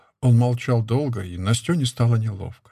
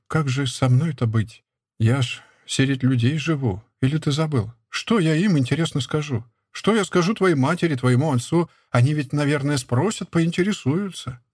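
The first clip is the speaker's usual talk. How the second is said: a hint of a worried young wife, slightly raised; lightly voiced anxious woman asking; Nastyona's pleading voice; 3 semitones higher than usual. Nastyona presses her husband, lightly voiced anxious pleading.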